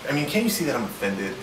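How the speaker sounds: mock-offended, preachy; self-righteous. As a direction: act wounded and superior. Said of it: "most self-righteous tone I can muster".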